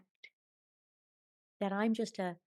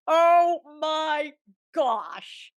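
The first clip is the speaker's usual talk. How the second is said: higher, louder, half laughing half crying; overwhelmed; 8 semitones higher, 9 dB louder, much slower than usual. Retold or imitated. Woman reliving the psychic's revelation, overwhelmed and louder. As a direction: let the wonder spill out. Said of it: "I laughed and cried out loud".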